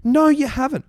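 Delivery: half-hearted angry denial; mock indignant. The speaker correcting David on the phone, mock angry.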